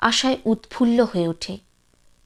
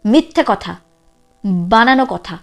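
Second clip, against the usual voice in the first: agitated mother; 2 semitones lower, 4 dB louder than usual. Acted. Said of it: "ফের উগ্র হয়ে ওঠেন নীরজা".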